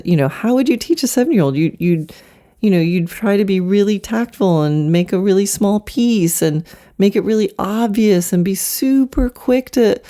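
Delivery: usual speaking voice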